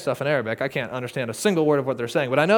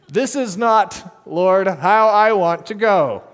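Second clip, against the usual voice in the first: laughing; 2 semitones higher, 7 dB louder, much slower than usual. Real, not acted. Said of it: "laughing about the moment".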